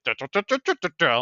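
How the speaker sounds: string of staccato nonsense syllables; imitated "duh" noises. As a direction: rattle off mock duh-duh syllables. Imitating anesthesiologist's reaction to medic.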